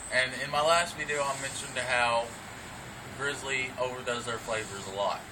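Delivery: talking around a dip in the lip; lip full of dip. Real, not acted. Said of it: "so I already got my dip in".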